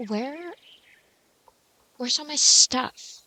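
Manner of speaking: loud, slow, baffled; where did everything go; confused. Real, not acted. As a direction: call out in real confusion. Can't find her game items.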